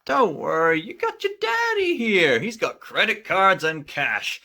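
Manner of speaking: high, smug confident father; cocky dad voice. Acted.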